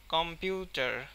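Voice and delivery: কম্পিউটার with the পিউ syllable stressed; stress on second syllable. Shown as a demonstration. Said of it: "stress দেওয়া হয়েছে পিউ এর উপরে". (কম্পিউটার শব্দে পিউ-এর উপর জোর)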